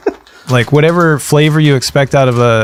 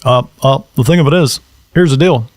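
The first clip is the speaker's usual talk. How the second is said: Obama impression. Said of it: "here is my actual Obama".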